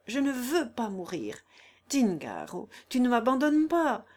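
brash then pleading woman in labour; Corilla in labour. Acted. Corilla to the stranger helping her, raw and pained.

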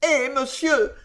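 high, distressed moan. A narrator's reading. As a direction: moan the protest. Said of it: "gémit de plus belle".

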